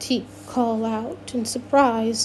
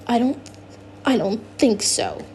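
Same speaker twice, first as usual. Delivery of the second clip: hissed refusal. Acted. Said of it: "Dax hisses".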